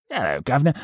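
quick jokey Cockney; mock Cockney accent. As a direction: toss it off like a stage Cockney.

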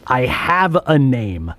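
loud, slow, indignant insistence. Acted. Innovator insists on having a name, loud and indignant. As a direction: push it out loud and drawn out. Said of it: "Look, he's loud".

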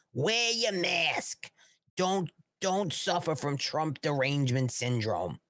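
a hint of a slow, earnest health official, fading to a whisper; mock public health warning, slow and hushed at the end; lightly voiced Fauci. Vlogger mocking Fauci's mask advice to viewers, in a slow lightly put-on official voice. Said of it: "I can't do Fauci. I don't do impressions".

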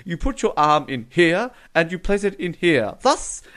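lightly voiced sarcastic know-it-all, rising on "Thus". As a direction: talk down like a smug sarcastic git. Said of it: "being a real sarcastic git".

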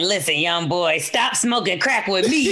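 slow, laughing half-shouted advice; mock crackhead mentor.

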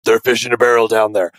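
mock-serious superhero growl, understated; Cap's Batman voice. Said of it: "Cap's most Batman voice".

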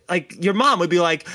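usual speaking voice

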